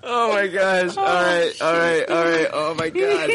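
high, winded oh my God; breathless after laughing. Real, not acted. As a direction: catch your breath after a laughing fit. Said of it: "My stomach hurts".

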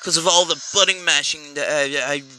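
strained and worn out; tired arm. Real, not acted. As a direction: talk through aching arm. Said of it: "My arm is hurting so much".

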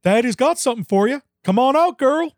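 calling the dog. Acted. Hank calling his dog.

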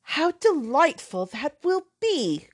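put-on a touch of gushing young lady; delighted cry. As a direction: gush over her friend's luck. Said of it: "cried Isabella".

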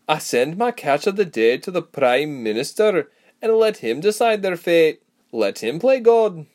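loud, high, rough-and-ready character voice; brash frontier woman, emphatic; blunt rustic huntress. A narrator's reading. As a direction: explain your trade with brash confidence. Narrator voices Sebra explaining.

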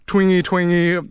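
"twingy, twangy" in a light sing-song; twangy up-down tune. Shown as a demonstration. Describing Busan intonation, "twingy, twangy" gently swinging. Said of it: "it's kinda like this".

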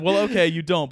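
reading aloud while cracking up; laughing. Real, not acted.

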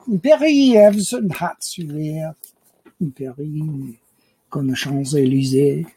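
slow, put-on French accent; lightly hammed-up French; mock French accent. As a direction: play the Parisian in jokey French. Playing a Frenchman about Paris.

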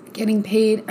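choking on bread mid-sentence. Real, not acted. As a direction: talk while a crumb of bread catches. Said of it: "I'm choking on some bread".

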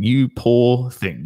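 drawn-out knowing pity; smug pity. Retold or imitated. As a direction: savour it like you know what's coming. Inner thought, confident man to woman.

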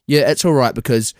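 low, measured threat; seethe under a show of calm. Retold or imitated. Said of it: "like, this death stare".

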